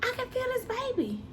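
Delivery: high, strained cry for mom; calling her mom in alarm from the back room; panicked call to mom. Retold or imitated. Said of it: "I'm like".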